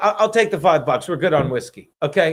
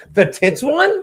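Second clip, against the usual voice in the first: mock grossed-out tone, very high pitch; 10 semitones higher than usual. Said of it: "Like she's got some kind of disease".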